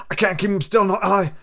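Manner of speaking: put-on a sick old sailor coaxing the boy; old pirate captain. Captain begging for rum.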